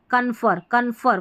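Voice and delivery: कन्फर with a slight press on फर; कन्फर, its last syllable फर given force; stress on final syllable. Shown as a demonstration. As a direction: lean a little on फर, the end of कन्फर. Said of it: "फर को हम थोड़ा press देके".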